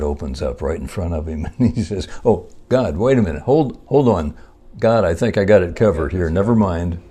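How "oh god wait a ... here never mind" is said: raised and louder, quickly calling the deal off; mock-hurried take-back, a bit sheepish; hasty backpedal. Driver suddenly tells God never mind, hasty mock backpedal. Man cancels deal as spot opens.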